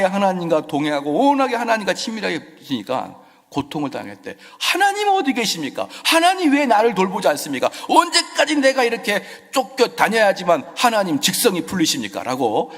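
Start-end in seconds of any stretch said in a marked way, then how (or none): 4.6-12.2 high, loud anguished complaint; lamenting plea. Acted. David lamenting to God, pitched high and loud. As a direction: cry out in despair. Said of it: "한탄하고 있는".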